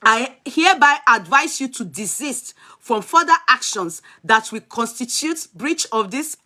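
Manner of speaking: slow, measured reading of a legal notice; formal letter reading. Acted. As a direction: read it out like an official warning. Reads a letter aloud.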